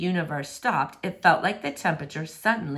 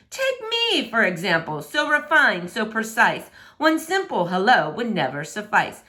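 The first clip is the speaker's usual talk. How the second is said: pompous prince; 2 semitones higher than usual. Acted. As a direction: puff up like a vain royal. Prince shows off outfit.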